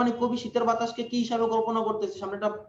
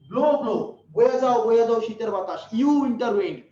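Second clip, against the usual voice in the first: commanding declamation; 6 dB louder than usual. Acted. Poet commanding the winter wind.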